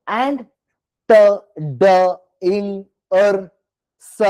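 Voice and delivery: "ത, ഡ" spelled out as separate sounds; ending sounds said one by one; word endings sounded. Shown as a demonstration. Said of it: "C words വരുമ്പോ". (അവസാന ശബ്ദങ്ങൾ ഓരോന്നായി)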